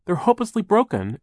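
very high, loud lament; crying out. A narrator's reading. Violet laments her brother's glasses, crying out. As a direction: wail the damage in dismay. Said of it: "Violet cried".

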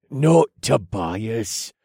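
slow, weary correction; exasperated. Acted. Escort correcting the other guard, exasperated. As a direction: sigh it out, fed up. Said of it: "explained in an exasperated voice".

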